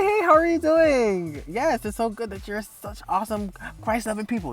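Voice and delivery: passive-aggressive church-lady pleasantries; nice-nasty. Acted. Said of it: "nice, nasty".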